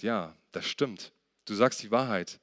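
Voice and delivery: low, measured, gentle confirmation; calm affirmation. Acted. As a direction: confirm it softly and unhurriedly. Jesus calmly confirms her answer.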